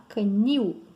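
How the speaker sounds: canil with the weight on NIL; stress on last syllable. Shown as a demonstration. Teacher showing students an oxytone word, canil stressed at the end. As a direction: lean on the final syllable of canil. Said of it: "a última é mais forte".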